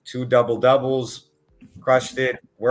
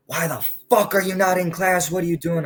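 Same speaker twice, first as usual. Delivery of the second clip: higher, sharp mock scolding; angry scolding; 8 semitones higher, 3 dB louder than usual. Frank catches a student skipping and scolds him, higher and sharp. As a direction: snap at the kid for skipping class.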